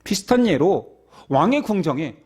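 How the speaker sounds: usual speaking voice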